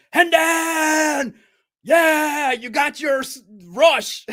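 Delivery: high, loud cheering, breaking into a laugh; neighbor's loud cheer, laughing; imitating a loud fan. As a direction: whoop like an overexcited fan in the press box. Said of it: "you got this guy next to me".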